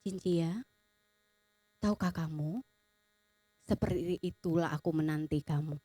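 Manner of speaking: low, soft, unhurried divine voice; God speaking. Retold or imitated. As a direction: speak tenderly and low, pausing between phrases. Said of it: "Tuhan bilang begini". (suara Tuhan yang rendah dan lembut)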